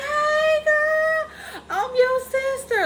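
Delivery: high, loud excited scream into the phone; screaming excitedly. Retold or imitated. Woman screaming to her new sister on the phone, overjoyed. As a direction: shriek it like you just found your sister. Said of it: "I'm screaming on the phone".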